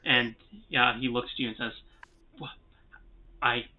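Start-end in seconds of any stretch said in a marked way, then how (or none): 2.4-3.6 mildly acted bewilderment; lost for words. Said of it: "I'm lost for words".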